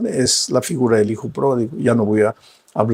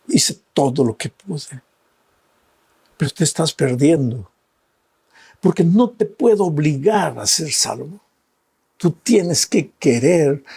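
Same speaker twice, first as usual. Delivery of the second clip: pleading Jesus; 4 semitones higher than usual. Acted.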